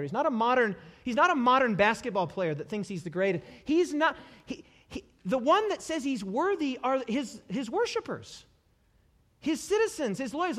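usual speaking voice

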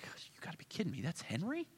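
whispered, stunned disbelief. Acted. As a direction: breathe it out to yourself in shock. Pastor stunned, to himself.

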